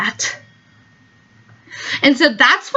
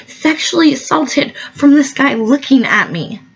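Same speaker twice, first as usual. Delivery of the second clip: ordinary talk, nothing marked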